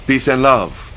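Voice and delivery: put-on high, loud accented pleading, LOVE falling; pleading surrender. A narrator's reading. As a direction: beg again, just as frantic. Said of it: "He said this several times".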